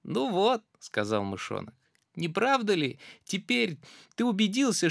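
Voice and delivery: high, smug mouse voice; cocky mouse. Acted. Mouse scaring the gruffalo, high and smug. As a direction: savour the threat.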